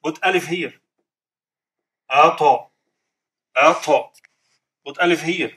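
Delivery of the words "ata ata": "Ata" with the t released in a short echoing bounce; qalqala bounce. Shown as a demonstration. Teacher demonstrates qalqala on ta, echoing bounce. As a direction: bounce the ta in "Ata" after the alif. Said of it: "Did you see how the qalqala".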